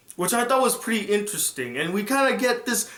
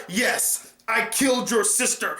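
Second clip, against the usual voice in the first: gloating shout; 5 semitones higher than usual. Retold or imitated. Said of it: "He's like".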